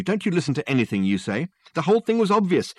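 high, loud exclamation; exclaiming. Acted. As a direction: burst out, thumping the table. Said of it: "he exclaimed".

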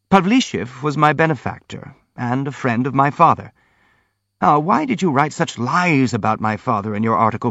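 lively, protesting prince character; earnest, indignant prince. Acted. Prince answers his accusers about Pavlishev, earnest and indignant.

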